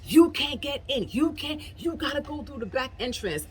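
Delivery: a hint of a bossy guard voice; mocking the guard. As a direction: mimic the guard blocking the entrance. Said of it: "And it's like".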